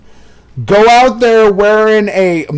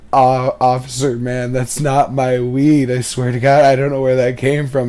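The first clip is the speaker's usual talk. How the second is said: nervous denial; 5 semitones lower, 4 dB quieter than usual. Retold or imitated. Stoner pleading quietly with the officer that the weed isn't his. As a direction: mumble low like a busted stoner swearing innocence. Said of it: "the guy looks at him and says".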